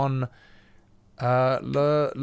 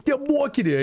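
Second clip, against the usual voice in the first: flustered excuse; 12 semitones higher than usual. Retold or imitated. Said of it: "I'm like".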